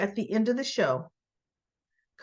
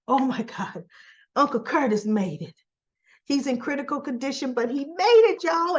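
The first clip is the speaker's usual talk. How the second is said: joyful news; 4 semitones higher than usual. Pretend. Doctor tells the waiting family he made it, cheering. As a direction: burst out with the good news.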